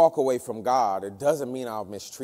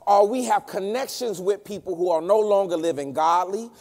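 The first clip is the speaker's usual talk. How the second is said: forceful, higher-pitched pulpit delivery; preaching; 7 semitones higher, 6 dB louder than usual. Real, not acted. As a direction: press each point home, building louder into the mock quote.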